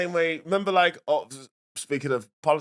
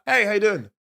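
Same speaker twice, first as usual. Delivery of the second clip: higher, over-keen flirty greeting; creepy winking come-on; 5 semitones higher than usual. Shown as a demonstration. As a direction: greet them with a suggestive wink. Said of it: "let me dial it down".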